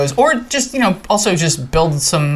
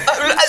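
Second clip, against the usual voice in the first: mock sneeze buildup; 12 semitones higher, much faster than usual. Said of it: "Trying not to sneeze".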